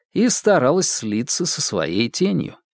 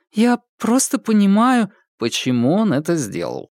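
lightly mocking echo of Polina, я raised high; ironic echo; 9 semitones higher than usual. Ilyushin echoing Polina's excuse back at her, lightly mocking. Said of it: "закончил Илюшин".

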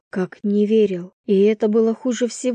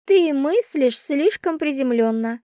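lightly higher, reassuring friend; comforting roommate; 7 semitones higher than usual. A narrator's reading. Roommate comforting Vasya on the bed, reassuring. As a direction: talk her out of guilt. Svetka's voice.

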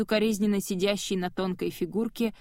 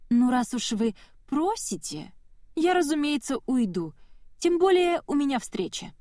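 airy mockery; 6 semitones higher than usual. A narrator's reading. Mocking exit line.

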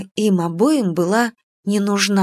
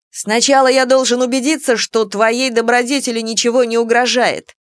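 high, loud pompous declaration; 3 semitones higher, 3 dB louder than usual. Acted. Dragon pompously insists on guarding her virtue, high and loud. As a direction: declare it with lofty pathos. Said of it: "патетично заявил Саламандрик".

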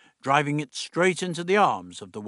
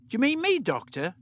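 lightly voiced higher girl; young Dodo; 11 semitones higher than usual. Dodo asking the Doctor if he means her, light girl voice. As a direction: play the young companion, eager.

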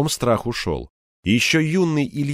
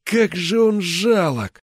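slow, higher scornful thought; inner thought; 7 semitones higher, slower than usual. Acted. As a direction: think it with contempt. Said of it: "отметил про себя Кирпич".

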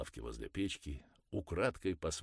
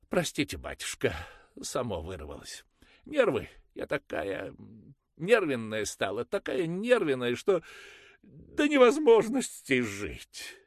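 much higher and louder, slowing at the end; high nervous mother; 10 semitones higher, 11 dB louder than usual. Acted. Mother excusing herself to the priest, high and nervous. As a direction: plead your frayed nerves.

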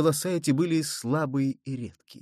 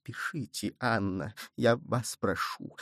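much softer, urging; quietly; 4 semitones lower, 7 dB quieter than usual. A narrator's reading. Cardinal quietly urging the queen to sign. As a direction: press her in a low voice. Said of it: "прибавил тихо".

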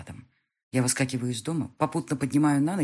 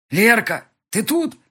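calling out; 9 semitones higher, 9 dB louder, slower than usual. Acted. Hero calling out in dark hall.

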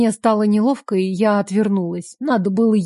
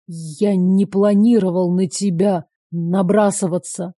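ordinary delivery, nothing marked

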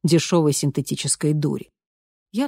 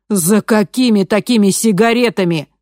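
loud, higher angry shout; крик; 6 semitones higher, 8 dB louder than usual. A narrator's reading. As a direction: yell it at her. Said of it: "закричал Маше".

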